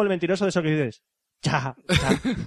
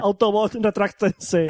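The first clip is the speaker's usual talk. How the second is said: booming heroic robot leader order; Transformers commander voice; 3 semitones higher, much slower than usual. Pretend. Cohost quoting Transformers, mock heroic robot command. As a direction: command the Autobots like Optimus Prime.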